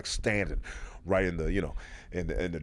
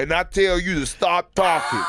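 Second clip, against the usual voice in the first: high, loud, hammed-up interviewee voice; mock guest voice, pitched up and laughing; mock tough-guy guest; 8 semitones higher, 5 dB louder than usual. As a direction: puff up like a guest lecturing the host. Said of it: "and then he goes".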